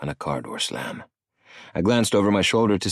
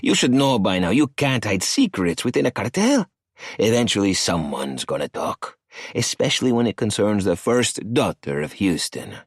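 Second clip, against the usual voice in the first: a lightly voiced cocky older man, pitched up; arrogant cartel boss; 3 semitones higher than usual. Cartel boss Emilio needling Maddie on the phone, sneering. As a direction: sneer the question at him.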